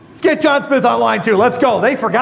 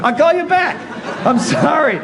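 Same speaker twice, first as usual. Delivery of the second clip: higher, laughing through an apology; giggling apology; 4 semitones higher than usual. Retold or imitated. Salesman apologizing to a client on the phone, laughing. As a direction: try to stay professional but crack up.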